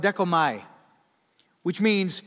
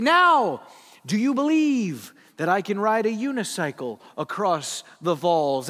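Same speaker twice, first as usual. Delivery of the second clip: a touch louder, a hint of a showman; showman calling out; 5 dB louder than usual. Blondin daring the crowd, lightly voiced showman. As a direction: lightly tease the crowd with a dare.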